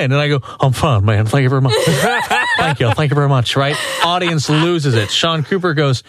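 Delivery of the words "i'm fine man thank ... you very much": mock a singer thanking the crowd, lightly done; impression of a singer. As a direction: thank them like a famous crooner, half laughing. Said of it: "I have perfected my impersonation of a singer".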